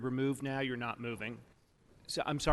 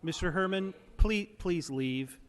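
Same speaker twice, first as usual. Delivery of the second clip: firm command; 5 semitones higher, slower than usual. Real, not acted. Chair orders disruptive speaker out.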